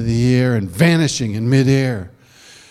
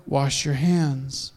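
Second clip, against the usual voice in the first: stern hostess; 7 dB quieter, much slower than usual. Acted. Missus Wizard scolding.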